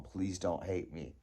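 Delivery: softly, slowing down, pleading; a small, sheepish please; quiet mock plea to mom.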